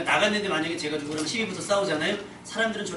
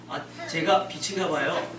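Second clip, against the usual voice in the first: slow, hedging tentative delivery; unsure, hesitant; slower than usual. Shown as a demonstration. Preacher demonstrating a less certain believer, hesitant. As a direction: say it like you only half believe it. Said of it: "약간 확신이 덜한 거죠".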